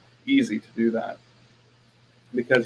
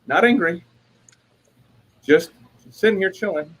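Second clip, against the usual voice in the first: mock defensive; 6 semitones higher than usual. Acted defensive reply to wife.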